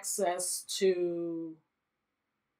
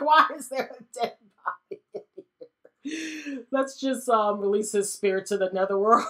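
laughing Mentha. Pretend. Mentha finding the dead body, laughing and fast. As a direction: blurt it through laughter. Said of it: "Mentha's like".

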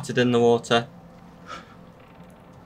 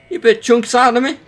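outraged yell; 8 semitones higher, 4 dB louder than usual. Real, not acted. Outraged at enemy damage.

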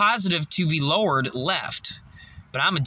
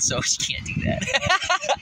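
slow squeaky high voice; high squeak; slower than usual. Real, not acted. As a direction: squeak it up, slowly. Joke about no heart.

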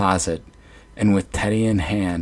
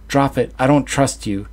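higher, louder command; hollered; 5 semitones higher, 4 dB louder than usual. Acted. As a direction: holler it at her. Son keeps hollering at mother.

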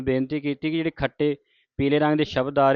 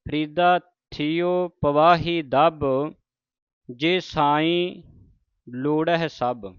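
measured verse reading with deliberate phrase breaks; scripture recitation; slower than usual. Acted. Teacher models Farid's verses for the congregation, measured recitation. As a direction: recite each phrase, then pause.

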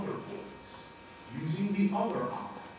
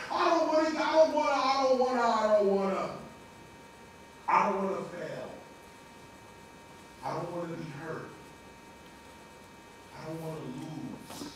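fearful repetition fading; 2 semitones lower than usual. Acted. Fearful man's repeated refusals.

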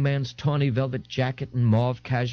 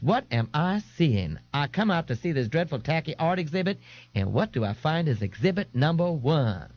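a hint of a higher, affected dandy; lightly voiced camp young man; 5 semitones higher than usual. Young man mocks Ignatius's outfit, lightly camp. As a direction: tease him with theatrical disdain.

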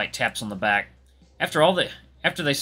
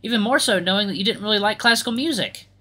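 slightly raised, sincere character voice; lightly voiced grateful performer, a little uncomfortable; polite, touched young musician; 9 semitones higher, 4 dB louder than usual.

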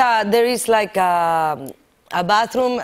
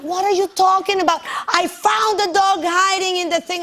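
retold own retort; 8 semitones higher than usual. Her own retorted reply.

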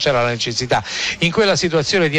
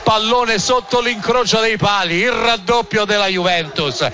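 excited, higher goal recap; breathless italian goal commentary; 4 semitones higher than usual. Real, not acted. Post-goal commentary, raised voice.

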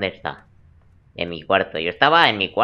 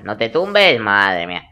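exasperated shout; 5 dB louder, slower than usual. Real, not acted. Scolding the character lying down.

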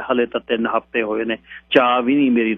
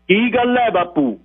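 nervous; 11 semitones higher, slower than usual. A narrator's reading. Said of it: "ਮੁੰਡੇ ਨੇ ਘਬਰਾਏ ਹੋਏ ਗੱਲ ਕੀਤੀ".

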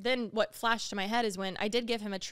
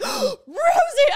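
shocked shout; 14 dB louder than usual. Retold or imitated. As Rosie bites Jordan, a high shocked shout. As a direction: shriek the name, much higher and louder. Dog bites guest's pants.

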